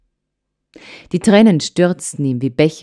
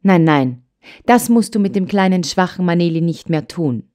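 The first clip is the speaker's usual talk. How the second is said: admonishing. Acted. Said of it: "mahnte die Großmutter".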